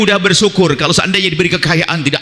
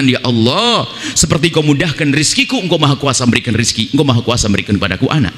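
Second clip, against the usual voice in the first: faithful prayer; 4 semitones lower than usual. Retold or imitated. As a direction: pray gently with faith, picking up pace at the end. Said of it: "Tapi kalau dia punya iman".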